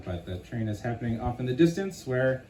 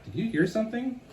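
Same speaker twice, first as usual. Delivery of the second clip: startled question; 10 semitones higher, faster than usual. Acted. Character startled by a crack.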